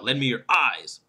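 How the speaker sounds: final word "eyes" stressed as a contrast. Shown as a demonstration. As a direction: land on "eyes" as the alternative. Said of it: "as opposed to what?".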